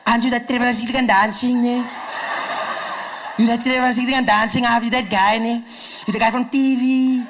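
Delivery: drawn-out vowels, loud, odd character voice; hammed-up burly local woman, words stretched long; loud mock voice of a burly stranger. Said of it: "burly woman, you know".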